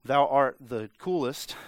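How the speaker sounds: slow, mock-stately compliment; casual chat turned slow King James; mock old-English talk. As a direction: stretch out the archaic words in parody. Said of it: "if you just talk like that".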